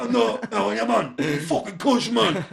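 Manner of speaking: high and loud, straining to seem fine; girly high-pitched voice. Retold or imitated. Hurt man playing the big man for his lass, high-pitched. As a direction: put on a high, girlish voice, acting cush. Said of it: "I've got a high-pitched voice".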